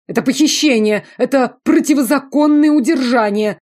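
high, loud outraged whine; indignant protest. A narrator's reading. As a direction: protest like a wronged nobleman. (высокое громкое возмущение)

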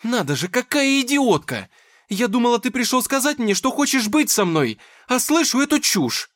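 high, loud furious rant; shrill-pitched yelling fury; angry shouting. Acted. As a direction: scream your disappointment at him. Dasha furious at Nikita.

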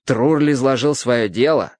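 plain reading voice

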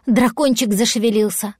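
plain reading voice

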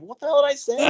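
high, puzzled protest; mock bewildered fan; baffled. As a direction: ask with disbelief what went wrong.

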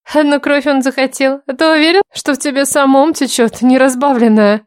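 mocking. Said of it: "ехидный женский смешок".

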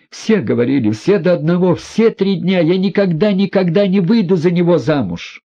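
high, loud desperate cry; shouting. A narrator's reading. Aglaya shouts at the family before bursting into tears. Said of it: "Прокричав это".

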